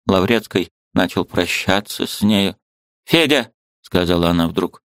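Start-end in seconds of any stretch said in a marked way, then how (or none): 3.0-3.5 put-on high, fussy old woman; a bustling old aunt, pitched high; old aunt's voice. A narrator's reading. Old aunt shooing the niece, high fussy voice.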